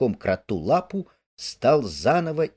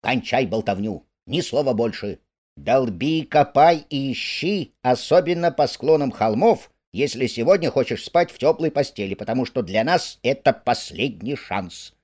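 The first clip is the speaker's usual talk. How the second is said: 1 angry. Acted. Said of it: "рассерженный уже не на шутку".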